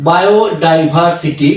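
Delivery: বায়োডাইভার্সিটি said slowly and carefully; slow whole word. Shown as a demonstration. Tutor to learners, careful slow বায়োডাইভার্সিটি. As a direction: ease through বায়োডাইভার্সিটি. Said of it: "আমরা পড়বো".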